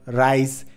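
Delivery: "রাইস" said with a clear English r; rice, r not l. Shown as a demonstration. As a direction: start "রাইস" on a firm r. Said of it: "এই র লেটারটা নাই তাদের ভাষায়।".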